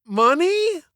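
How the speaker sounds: high, baffled guess; bewildered. Acted. Jimmy guessing at the teacher's question, high and bewildered. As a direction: ask it totally lost. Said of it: "utterly bewildered".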